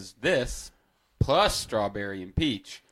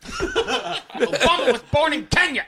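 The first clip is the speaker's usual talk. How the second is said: high, slow laughing hick voice; old redneck voice; 4 dB louder, slower than usual. Acted. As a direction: ham up an old grandpa. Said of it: "Grandpa? Is that you?".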